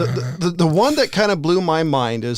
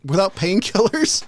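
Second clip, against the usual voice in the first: incredulous; 6 semitones higher than usual. Retold or imitated. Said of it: "I'm like".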